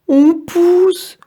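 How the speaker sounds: very high, loud burst of surprise; amazed cry. Acted. The apples cry out together, amazed they're sprouting. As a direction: discover the sprouts with a shout. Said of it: "s'écrie-t-elle".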